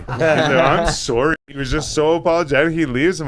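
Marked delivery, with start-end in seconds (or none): 0.2-1.4 slow, stretched, louder mock apology; hammed-up grovelling sorry; drawn-out apology. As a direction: draw out the sorry like a grovelling man. Mocking over-apologetic manager.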